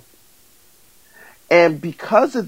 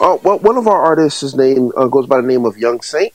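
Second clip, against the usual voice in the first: louder, polished announcer delivery; radio voice; 6 dB louder than usual. Real, not acted. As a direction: present it like a radio DJ. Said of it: "you don't have to talk in your radio voice".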